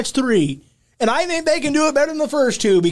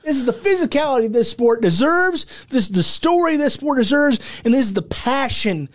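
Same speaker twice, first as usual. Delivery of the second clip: ringmaster; 3 semitones higher than usual. Acted. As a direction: sell it like a carnival barker. Hyped ringmaster promo.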